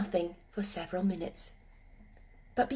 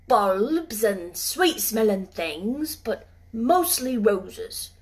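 put-on slow, gentle Yorkshire old man; tender old gardener; 4 dB louder, slower than usual. Ben confessing his love of roses, slow and fond. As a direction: linger on the roses fondly.

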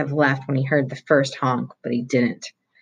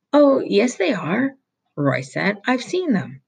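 insistent; 7 semitones higher than usual. A narrator's reading. Roy insists to foreman.

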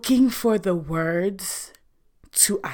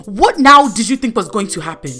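loud, rapid-fire indignant questions; exasperated confrontation; 2 semitones higher, 6 dB louder than usual. Retold or imitated. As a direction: demand answers, punching the question words. Angrily confronting the woman who left baby.

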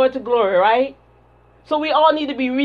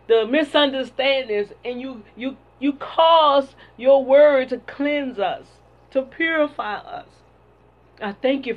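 prayer. Real, not acted. Leads a prayer.

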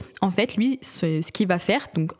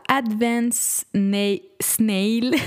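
Snail said the English way; English pronunciation; much slower than usual. Shown as a demonstration. Vlogger reading an English product name in English. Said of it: "ça je dis en français".

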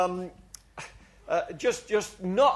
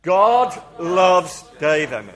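slow, much louder proclamation; loud group declaration; 9 dB louder, slower than usual. Shown as a demonstration. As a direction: call it out boldly with the crowd. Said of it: "Let's say it again, everybody together".

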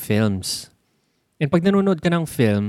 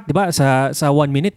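usual speaking voice

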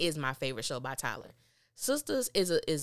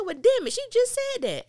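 much higher and louder outburst; exasperated yell; 8 dB louder than usual. Real, not acted. Viewer yelling at the TV about repeated lines, high and loud. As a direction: shout at the screen in disbelief.

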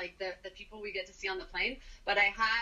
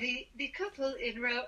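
put-on Australian accent; 3 semitones higher than usual. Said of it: "your flight attendant voice".

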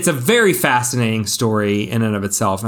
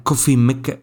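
put-on puzzled echo of Spanish-accented coffee maker; quick coffee maker, Spanish-style; faster than usual. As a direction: repeat the Spanish-accented words, baffled. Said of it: "in a quick Spanish accent".

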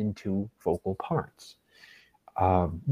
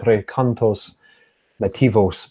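Spanish accent. Shown as a demonstration. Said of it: "with my best Spanish accent".

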